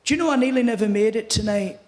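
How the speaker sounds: lightly voiced Scottish comedian; a hint of a Scottish storyteller; Billy Connolly. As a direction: do a light comic Scottish impression. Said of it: "And then Billy says to me".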